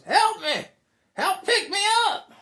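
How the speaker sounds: very high, loud yelp for help; hammed-up cry for rescue; fallen man pleading. Storyteller voices a fallen man yelling for help, pleading.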